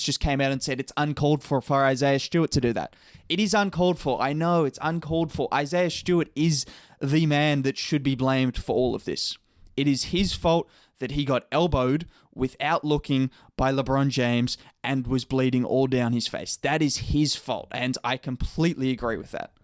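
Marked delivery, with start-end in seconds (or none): 3.3-17.7 sarcastic. Acted. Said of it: "that was sarcasm". 17.7-19.5 flat, dry sarcasm; deadpan sarcastic. Acted. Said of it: "that was sarcasm".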